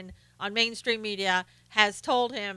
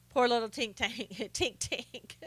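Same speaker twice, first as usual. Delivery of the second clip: mocking laugh; 9 dB quieter than usual. Real, not acted. Mocking Acosta as a crybaby.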